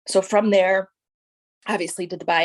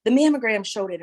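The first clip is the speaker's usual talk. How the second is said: excited friends; 7 semitones higher, 4 dB louder than usual. Retold or imitated. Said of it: "so many people were like".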